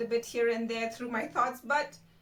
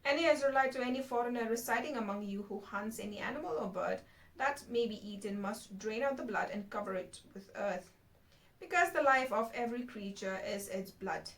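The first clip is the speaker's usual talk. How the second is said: measured Bible reading aloud; scripture reading. Real, not acted. Host reading Leviticus to viewers, scripture reading. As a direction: read the verses out, phrase by phrase.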